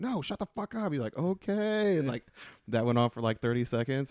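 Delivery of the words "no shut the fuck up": very high, shrill, angry yell, acted out. Retelling yelling back at a man shouting during your set, super pissed. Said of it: "I was just getting like super pissed".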